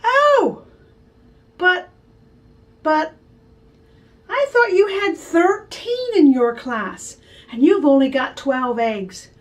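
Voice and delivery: a lightly voiced smug big brother, slow; teasing brother. Brother catching his sister's mistake, lightly smug. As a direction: point it out with mock concern. Brother pointing out missing egg.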